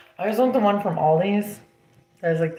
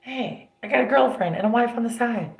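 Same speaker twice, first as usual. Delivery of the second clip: laughing imitation; 4 semitones higher than usual. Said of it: "when I met him".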